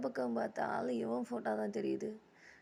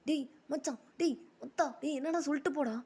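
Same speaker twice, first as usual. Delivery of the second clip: higher-pitched urgent call; raised acted protest; calling after someone; 4 semitones higher than usual. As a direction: call out to a friend walking away. Calling after friend who walks off.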